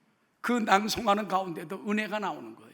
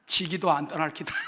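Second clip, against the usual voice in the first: laughing Gyeongsang dialect. Shown as a demonstration. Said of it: "경상도 버전을 지금 읽어드립니다".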